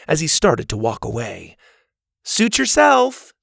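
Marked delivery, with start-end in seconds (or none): 2.2-3.3 high, slow call after someone leaving; breezy parting call, slowed and higher; calling after him. A narrator's reading. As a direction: let it carry after him as he goes. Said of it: "Zeta called after him".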